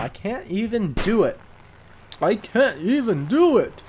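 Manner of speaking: high, swooping, hammed-up old man. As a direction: put on a bad old man's exasperation.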